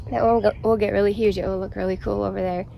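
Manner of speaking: breathless and fast; out of breath. Real, not acted. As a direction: talk short of breath. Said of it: "I'm, like, out of breath".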